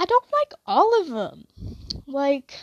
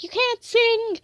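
inner judgment; 11 semitones higher than usual. Retold or imitated. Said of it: "in my head I was like".

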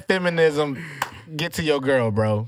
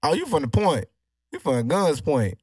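fake Houston accent. Teasing the guest about his neighborhood in a put-on Houston accent. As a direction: stretch it out in a mild Houston accent. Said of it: "that fake ass accent".

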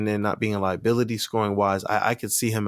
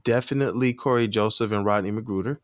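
sarcastic. Acted. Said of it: "get a hint of my, uh, my sarcasm".

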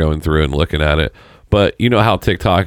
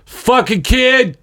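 very high, drawn-out mock kid yell; exaggerated high-pitched child outburst; imitating his son; much slower than usual. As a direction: squeal it slowly like an exasperated child. Imitating oldest son's swearing outburst.

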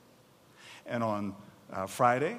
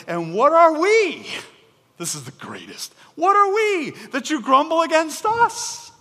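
exasperated Moses; 13 semitones higher, 10 dB louder than usual. Acted. Moses' exasperated retort, amused.

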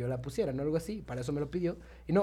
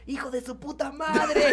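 joyful shout; 9 semitones higher, slower than usual. Retold or imitated. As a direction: hail a friend across the street with a big laughing yell. Greeting a supposed buddy on motorbike.

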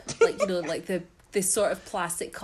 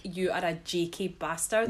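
proper Scottish insult. Shown as a demonstration. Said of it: "if I say it, it's a proper insult".

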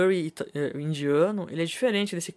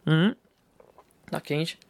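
talking into a bottle. Real, not acted. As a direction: voice inside a bottle. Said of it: "falando dentro da garrafa aqui".

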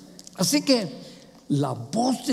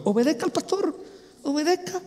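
insistent exhortation; 9 semitones higher than usual. Real, not acted. Preacher urging the congregation to obey, insistent. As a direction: press the command in a raised, light voice.

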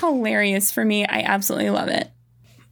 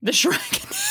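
much higher, rising squeal on Shrekening; squealed echo. Real, not acted. Friend gleefully echoing the silly word, delighted squeal.

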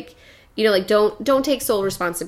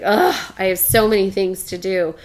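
put-on overwhelmed kid; 6 dB louder than usual. Son telling mom how busy he is, mock weary groan. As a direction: sigh out a six-year-old's heavy burden. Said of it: "he's like".

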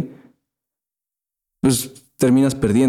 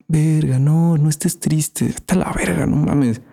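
higher, brushing-off mock scold; mock dismissive order; 5 semitones higher than usual. To a sad friend, a higher mocking dismissive command. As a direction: bark it like a pushy order that solves everything. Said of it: "suena como una orden".

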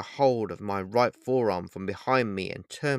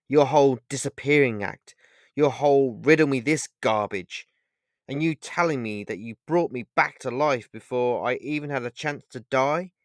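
louder, frustrated accusing tone; 3 semitones higher, 5 dB louder than usual. Acted. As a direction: throw his tricks back at him in frustration. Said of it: "I said with frustration in my voice".

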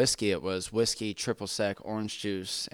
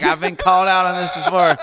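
high, louder, laughing through it; laughing admission; 8 semitones higher, 8 dB louder than usual. Retold or imitated. Customer admits a past mistake to the bartender, laughing. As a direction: laugh sheepishly, pitched up.

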